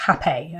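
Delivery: slow, clear "Hape", ending in "pay"; pronunciation of Hape. Shown as a demonstration. Vlogger explaining how Hape is said, clearly pronounced "ha-pay". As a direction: say "Hape" as two syllables, "ha-pay". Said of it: "but it's pronounced Hape".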